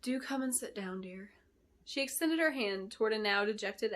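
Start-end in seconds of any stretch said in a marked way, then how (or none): 0.0-1.3 gentle. Acted. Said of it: "she spoke gently to Adeline".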